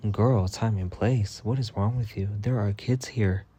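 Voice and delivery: slow, drawn-out, stern; slow disapproving scold. Retold or imitated. To Nora with kids around, a slow stern scold. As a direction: slowly remind her where she is.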